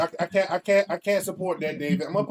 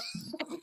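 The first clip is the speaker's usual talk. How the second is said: amused nose exhale; 17 dB quieter than usual. Real, not acted. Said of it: "Did you just snort?".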